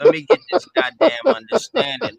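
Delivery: high and loud, demanding to be heard; frustrated shout. Real, not acted. Caller shouting over the host to get his question answered. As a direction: bark it out to take the floor.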